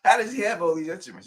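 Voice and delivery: high, loud mock disbelief; mock amazed. Host imitating cohost amazed by his instruments. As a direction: play it up as stunned wonder. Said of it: "You were like".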